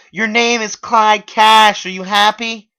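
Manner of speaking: very high, loud, slow yelling; screaming girlfriend; furious yell. Acted. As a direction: spit it out furiously. Megan yelling on phone.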